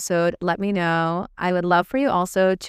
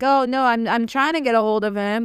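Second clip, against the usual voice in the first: higher, whiny fake-busy excuse; mock politician; 4 semitones higher than usual. Mocking a governor who dodges her calls, in a higher whiny voice. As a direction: mimic a dodging politician brushing you off. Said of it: "he's like".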